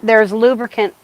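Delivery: muffled behind a mask; talking through a mask; through a face mask. Real, not acted. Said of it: "it's gonna be a little muffled".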